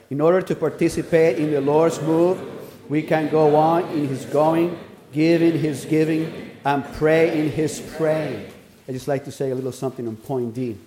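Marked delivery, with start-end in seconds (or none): 0.1-8.5 measured, deliberate recitation; firm public reading; leading a group reading. Real, not acted. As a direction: read it out evenly for all to follow. Leads outline reading aloud.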